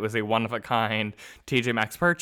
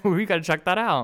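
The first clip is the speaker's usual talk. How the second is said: laughing while talking, pitched high; 9 semitones higher, 5 dB louder than usual. Real, not acted. Cohost laughing at the dating site joke. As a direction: laugh through the words.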